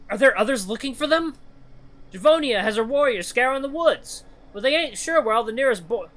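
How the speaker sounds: high, urgent animal voice; worried honey badger, pressing; anxious badger voice.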